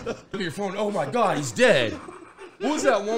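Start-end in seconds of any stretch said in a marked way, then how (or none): 0.8-1.9 mock shock. Acts out reaction to hoax.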